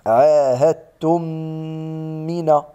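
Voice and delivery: عاهدتم من with the meem merged and held two beats; correct idgham. Shown as a demonstration. تلاوة عاهدتم من بإدغام شفوي وغنة حركتين. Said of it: "نقول".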